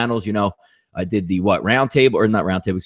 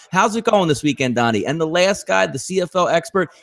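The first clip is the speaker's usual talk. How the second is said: impression of Drew; 3 semitones higher than usual. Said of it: "can you please do an impersonation of me right now".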